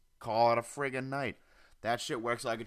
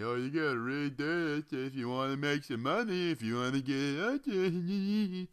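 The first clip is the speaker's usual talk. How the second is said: pushy app voice; 3 semitones higher than usual. Retold or imitated. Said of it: "then it tells me".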